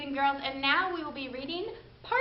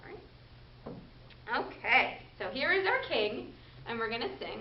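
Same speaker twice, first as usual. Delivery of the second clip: muffled by mask. Real, not acted. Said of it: "Let me take my mask off so you guys can hear me".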